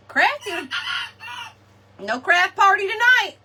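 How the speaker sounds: playful mock scolding; mock threat. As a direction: tease them with a pretend punishment. Teasing threat to chickens.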